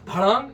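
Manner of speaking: a quick mock clatter noise; mock crash of a kicked pot; imitated clang. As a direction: blurt out a pot-clang sound. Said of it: "बोला".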